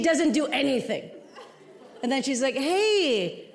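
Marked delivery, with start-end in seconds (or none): 2.5-3.5 higher, slow coaxing doctor voice; a chirpy doctor urging her down, slowly drawn out; mock doctor voice.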